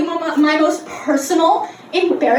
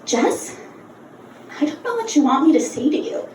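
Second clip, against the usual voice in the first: lower, measured therapist voice; weary professional at a loss; exasperated therapist; 3 semitones lower, 3 dB quieter than usual. Retold or imitated. Therapist voiced over phone.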